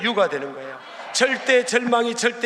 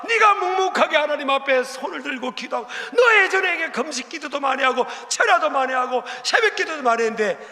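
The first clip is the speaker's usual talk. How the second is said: scolding shout; 6 semitones higher than usual. Acted. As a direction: shake them out of their grumbling. God scolding a complaining believer.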